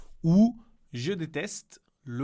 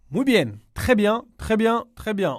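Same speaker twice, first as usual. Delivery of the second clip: high, loud cheering praise; bright teacher praise, pitched up and loud; enthusiastic praise; 7 semitones higher, 7 dB louder than usual. Real, not acted. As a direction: cheer the student on. Teacher praising student's answer.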